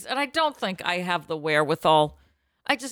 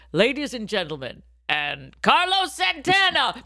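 grand announcer voice; 3 semitones higher than usual. Retold or imitated. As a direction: announce it like a concert host. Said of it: "you heard".

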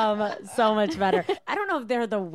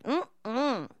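put-on pouty toddler refusal; 4 semitones higher than usual. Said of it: "When they're just like".

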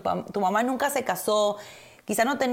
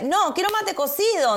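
higher, lightly whiny protest; mock pleading protest; 10 semitones higher, 3 dB louder than usual. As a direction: plead for the mate, half joking. Answering the imposed coffee. (protesta quejosa en broma)

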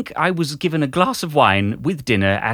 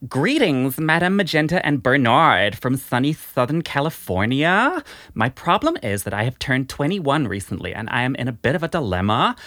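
put-on Valley Girl accent. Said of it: "Valley Girl voice".

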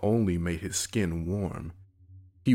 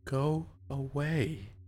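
quiet dismissal; 7 semitones higher, 5 dB quieter, much slower than usual. Acted. Sister dismisses brother.

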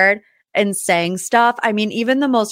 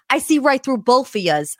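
put-on higher-pitched, amateur New Jersey accent; bad New Jersey accent; 5 semitones higher than usual. Podcaster quoting the new kid on the block, in a shaky New Jersey accent. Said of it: "New Jersey accent".

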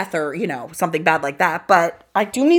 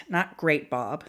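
quiet, dry Mad Men line, dropping low on "Bob"; deadpan movie-quote delivery; a quiet, understated nod to Mad Men; 3 semitones lower, 6 dB quieter, slower than usual. Retold or imitated. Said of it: "a little Mad Men reference".

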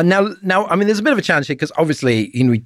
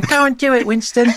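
high, hammed-up imitation of a gushing tube passenger; mocking film line; 12 semitones higher than usual. Mocking a cheesy film scene to a co-host, high hammed-up voice. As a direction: lampoon the cheesy film moment in a squeaky voice. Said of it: "that awful scene in the, in The Darkest Hour where he's on the tube".

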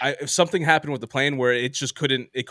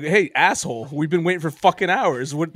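indignant retort; 4 semitones higher, 4 dB louder than usual. Retold or imitated. Retold indignant retort to captain.

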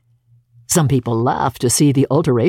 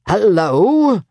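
mock growl; 6 semitones higher, 3 dB louder than usual. A narrator's reading. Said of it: "growled Scrooge".

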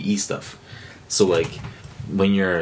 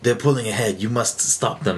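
Lord Shaxx impression; 3 semitones higher than usual. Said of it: "he has, like, a really cool voice".

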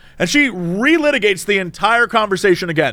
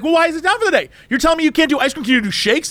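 high, demanding complaining customer; lightly voiced entitled Karen complaining; a hint of Karen; 8 semitones higher, much faster than usual. Customer complaining at drive-through window, mock demanding. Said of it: "she's going full Karen".

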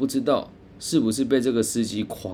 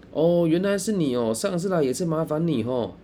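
raised, eager greeting to the driver; eager, hurried; 7 semitones higher than usual. Retold or imitated. Friend hurriedly cuts in to the driver, pitched up and eager. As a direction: jump in quickly, playing along as old friends. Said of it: "很急着对司机说".

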